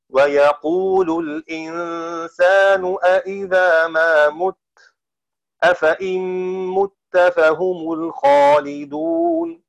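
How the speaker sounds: slow, drawn-out chanted recitation; Quranic recitation. Acted. Teacher recites the verse for students, slow and chanted. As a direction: intone the verses slowly like tajweed.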